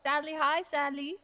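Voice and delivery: put-on sing-song baby talk to a small child. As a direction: coo her name like she's a toddler. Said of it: "Don't talk to me like I'm a child".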